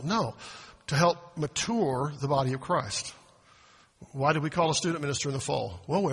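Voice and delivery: ordinary delivery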